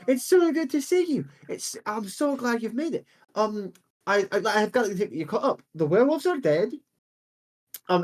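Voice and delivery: put-on a kindly old woman bringing him up to date; elderly Genasi woman. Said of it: "she goes".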